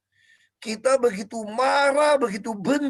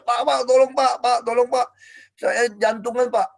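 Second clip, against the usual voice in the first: re-enacted urgent call, raised pitch at first; calling for help; 3 semitones higher, 3 dB louder than usual. Panicked detainee calling the guard for help, retold. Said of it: "saya panggil-panggil penjaga".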